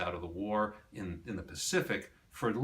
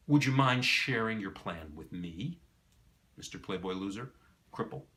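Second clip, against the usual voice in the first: drip sarcasm on every word; sarcastic; 2 semitones lower than usual. Retold or imitated. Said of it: "says something sarcastic like".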